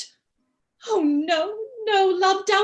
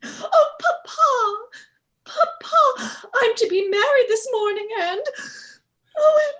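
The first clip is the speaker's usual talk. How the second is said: weep it out to him; crying; 2 semitones higher than usual. Acted. Bride sobbing to her father about the wedding. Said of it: "What are you crying for?".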